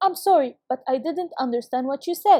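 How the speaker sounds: normal talking voice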